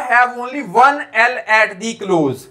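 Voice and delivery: slow, word-by-word rule reading; slow dictation. Shown as a demonstration. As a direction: spell out the rule slowly for students. Teacher reads rule aloud.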